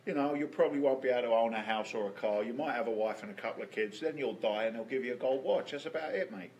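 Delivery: put-on lightly done London accent, working man; London accent, matter-of-fact dad. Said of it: "I'm gonna go into my London accent".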